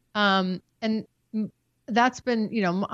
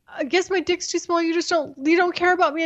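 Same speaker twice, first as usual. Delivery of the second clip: high, mocking sulky whine; mock his self-pitying sulk; whiny boyfriend; 7 semitones higher, faster than usual. Her imitating the jealous boyfriend's sulky whine. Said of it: "he would be like".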